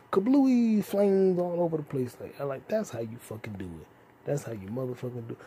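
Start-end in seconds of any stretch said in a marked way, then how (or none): 0.1-2.2 higher, slow drawn-out explosion word; excited kablooey. Pretend. Vlogger describing a movie explosion, gleeful higher. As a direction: relish the boom.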